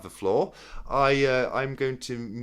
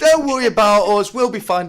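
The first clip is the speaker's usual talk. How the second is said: loud, high-pitched jokey outburst; mock reassurance; 10 semitones higher, 12 dB louder than usual. Teasing send-off as the host hands over the channel, mock reassurance. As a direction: shout it over the laughter, playfully.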